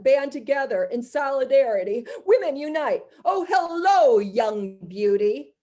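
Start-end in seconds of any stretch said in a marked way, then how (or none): 3.3-5.5 leering predator. Acted. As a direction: greet her like a leering predator. Predator greets young woman.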